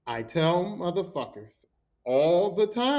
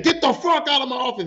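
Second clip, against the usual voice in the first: loud, higher imitated yell; mimicked outburst, raised voice; retold yelling; 7 semitones higher, 6 dB louder than usual. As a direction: yell it like an angry man throwing someone out. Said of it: "he started yelling".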